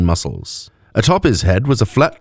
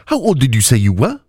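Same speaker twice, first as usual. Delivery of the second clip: put-on higher, accented woman's voice; Mauxi woman's accent; 5 semitones higher than usual. A narrator's reading. Woman questioning the elf at the bar, deep-vowelled Mauxi accent. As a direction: ask in an accent of deep vowels and sharp consonants. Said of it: "her accent marked by deep vowels and sharp consonants".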